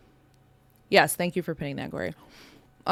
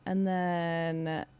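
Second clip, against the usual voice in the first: eating noodles while talking; mouth full. Real, not acted. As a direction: talk through a mouthful of noodles. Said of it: "You're eating noodles on stream".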